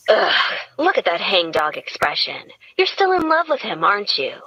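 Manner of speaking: mock indignation about the boxes; lightly voiced Gretchen. Gretchen teasing her friend.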